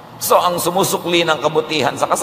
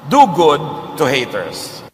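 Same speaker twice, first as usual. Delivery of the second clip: slow emphatic exhortation; slower than usual. Real, not acted. Slogan-like exhortation.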